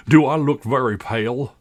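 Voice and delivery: lightly voiced worried figure; anxious Tweedledum. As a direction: ask fretfully in a put-on voice. Tweedledum frets before the battle.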